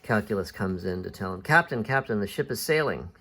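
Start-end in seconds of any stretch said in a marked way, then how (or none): 1.4-3.1 breaking news to the captain; urgent announcement. Acted. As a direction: call the captain with mild urgency. Calculus bursts in to alert captain.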